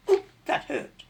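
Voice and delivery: pained yelp. A narrator's reading. Rat pricked by hedgehog.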